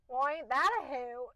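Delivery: imitating the narrator's Southern accent. Copying the audiobook narrator, light Southern accent. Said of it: "she does a southern accent".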